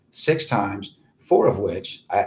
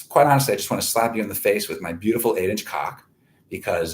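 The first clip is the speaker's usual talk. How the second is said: normal talking voice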